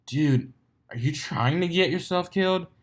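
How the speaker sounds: brash young stallion, lightly voiced; Soren's voice. A narrator's reading. Soren warns the panting stranger, lightly voiced. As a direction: call out teasingly.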